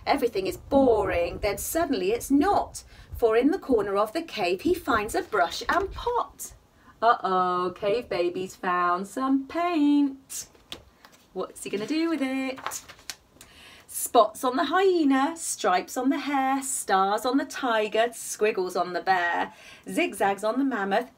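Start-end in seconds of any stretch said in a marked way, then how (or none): 0.0-6.5 gentle sing-song bedtime reading; cosy read-aloud storytelling; story narration. A narrator's reading. Reading picture book aloud. 13.9-21.1 gentle sing-song bedtime reading; cosy read-aloud storytelling; story narration. A narrator's reading. Reading rhyming verse aloud.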